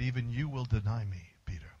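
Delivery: low, soft echo of the prophecy; quiet recollection of Jesus's warning; remembered words. Retold or imitated. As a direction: hush it as a painful memory. Peter recalls Jesus's words.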